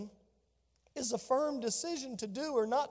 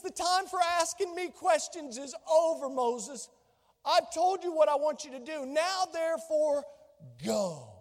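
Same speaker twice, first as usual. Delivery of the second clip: emphatic command; 4 semitones higher than usual. Acted. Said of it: "the Lord's emphatic, you know, determination".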